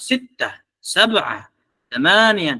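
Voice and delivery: "Sittah, sab'ah, samaniyah" with short -ah endings and a falling Arabic tune; "sab'ah" ending on a falling -ah like a real Arab; Arab intonation. Shown as a demonstration. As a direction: give each number a native Arabic lilt. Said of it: "Tapi Arabnya pakai nada Arab".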